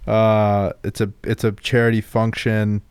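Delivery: Bruce Wayne voice. Acted. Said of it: "my Bruce Wayne".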